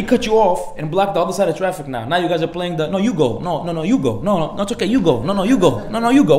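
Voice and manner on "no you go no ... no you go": over-polite. Acted. Acts out over-polite drivers.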